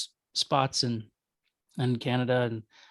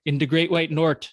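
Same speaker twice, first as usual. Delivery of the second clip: put-on playful, louder Minnesota accent; 2 semitones higher, 5 dB louder than usual. American teasing Canadian brothers and sisters, mock Minnesota accent. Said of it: "That's a Minnesota accent".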